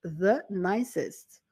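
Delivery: "The nicest" slowly, each word weighted; emphatic repeat. Shown as a demonstration. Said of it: "My sister is the nicest person in the world".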